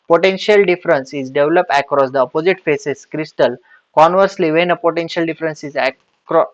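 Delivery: slow, deliberate note-dictation voice; dictating notes to the class. Acted. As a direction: spell it out slowly so students can write. Dictating a definition slowly.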